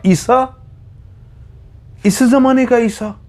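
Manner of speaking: enraged stranger barking the question; furious outburst. A narrator's reading. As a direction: roar it in sheer fury. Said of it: "एकदम गुस्से में बोला".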